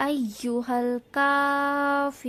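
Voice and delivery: الكافرون with ك from the throat and a long, slow ending; أيها with ي pressed hard; tajweed demo. Shown as a demonstration. Teacher models the verse for students, slow and careful. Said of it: "কাফের উচ্চারণ গলা থেকে হতে হবে".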